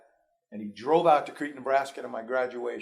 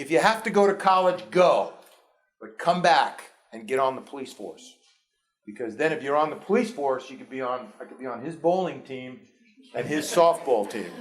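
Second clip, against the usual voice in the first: imitating father; 6 dB louder than usual. Father's advice retold.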